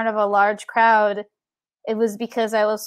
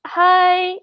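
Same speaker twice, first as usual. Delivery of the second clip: put-on small high child's voice; a shy little girl asking, high and small; tiny little voice; 8 semitones higher, 4 dB louder than usual. Five-year-old at the microphone, tiny high voice. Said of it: "only this little tiny voice".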